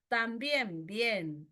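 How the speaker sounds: "También bien" very slowly, stress on BIÉN; acento en segundo término. Shown as a demonstration. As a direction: draw out the final syllable of "También", then echo "bien". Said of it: "el acento siempre va a recaer en el segundo término". ("También bien" muy lento, acento en BIEN)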